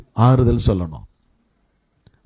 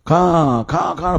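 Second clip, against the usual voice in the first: mock crow cawing; much slower than usual. Preacher showing how crows mourn, imitating a caw. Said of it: "சத்தம் போடும்".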